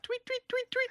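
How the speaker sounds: high mock tweeting; bird chirps. Recalling birds outside, high chirping tweets. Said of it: "There were some birds".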